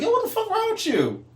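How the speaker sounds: mock yell. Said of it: "I was like".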